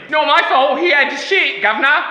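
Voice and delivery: attempting Millie's Australian voice but landing elsewhere; failed Australian accent. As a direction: botch an Australian impression. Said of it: "That's not Australian".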